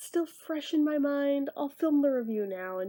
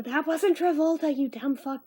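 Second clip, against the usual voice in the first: mock indignant, louder at the start; irate commenter; 3 semitones higher, 4 dB louder than usual. Reviewer imitating an angry commenter correcting them, mock indignant. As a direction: snap it like an online heckler. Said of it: "now watch somebody in the comments go".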